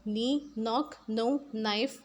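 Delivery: नी, नॉक, नो, नाइफ each starting on N; नी, नॉक, नो, नाइफ, dropping the K; silent K. Shown as a demonstration. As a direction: model नी, नॉक, नो, नाइफ with no K sound. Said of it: "के का sound produce नहीं किया जाएगा".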